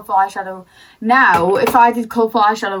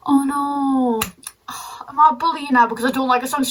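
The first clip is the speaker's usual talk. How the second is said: mock gasp; 4 semitones higher than usual. Mock alarm at own words.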